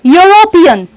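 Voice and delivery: यूरोपियन opening on a "yo" glide; exact pronunciation. Shown as a demonstration. Teacher demonstrates for students, exact pronunciation of यूरोपियन. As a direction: carefully sound out यूरोपियन from its y sound. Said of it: "the exact pronunciation of".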